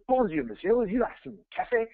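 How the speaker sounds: perky mock-French room service; perky French waiter. Waiter offering coffee at the hotel door, perky French accent. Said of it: "He's a little perky".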